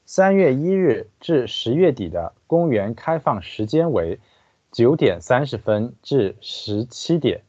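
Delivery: careful Chinese read-aloud; guide narration. Acted. Translator reading the park guide to listeners, formal narration. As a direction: read out each phrase evenly and distinctly.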